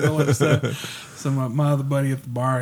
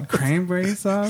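higher, drawn-out puzzled echo; mock bafflement; 5 semitones higher than usual. Bartender puzzled by a customer's odd order, baffled.

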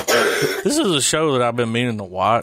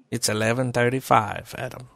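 Morgan Freeman voice; 5 dB quieter than usual. Pretend. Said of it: "I'd go with Morgan Freeman".

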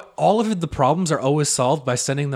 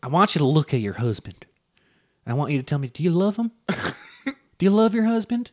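Doctor Phil questioning guest. Retold or imitated. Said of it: "this is always it".

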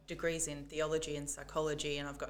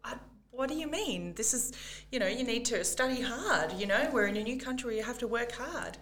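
higher, louder stern mum; 5 semitones higher, 5 dB louder than usual. Retold or imitated. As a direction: scold like a strict mum. Strict migrant mum lecturing child.

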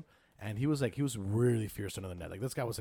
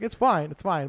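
high and loud through a chuckle; forgiving, half laughing; amused ref; 7 semitones higher, 10 dB louder, slower than usual. Retold or imitated. Ref at the bar laughs off the apology, high and loud. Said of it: "He's like".

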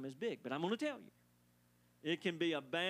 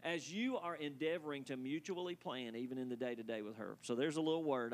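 preacher voice. Real, not acted. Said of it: "that was my preacher voice".

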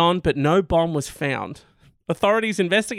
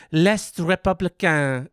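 French name defiantly overdone; put-on French accent; slower than usual. Shown as a demonstration. Host back to the news, French accent again on purpose. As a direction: roll out L'Est Républicain in a French accent. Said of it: "that's right, I did it again".

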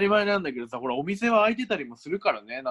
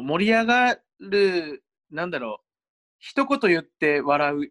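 slow drawn-out demo; 2 semitones higher, slower than usual. Shown as a demonstration. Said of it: "一言言って笑うっていうやつね".

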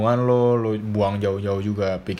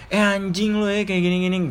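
higher, snappy mock swearing at a partner; mock insult; 9 semitones higher than usual. Acting out swearing at girlfriend mid-fight, mock insult pitched higher. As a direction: toss off a pretend insult, pitched up. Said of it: "Gue ngatain dia kayak".

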